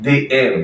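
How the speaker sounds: "the" pronounced dee before "aim"; long ee vowel in "the". Shown as a demonstration. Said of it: "ভাওয়াল sound".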